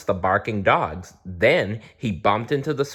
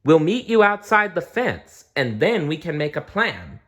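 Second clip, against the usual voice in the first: shouting; 7 semitones higher than usual. A narrator's reading. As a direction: call out across to them. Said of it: "Blinky shouted".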